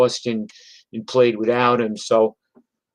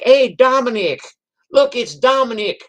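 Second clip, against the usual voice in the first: much higher, louder excited gushing; excited fans; 11 semitones higher, 4 dB louder than usual. Retold or imitated. Southern crowd spotting the drummer, excited and much higher. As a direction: gush like a starstruck fan. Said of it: "They were like".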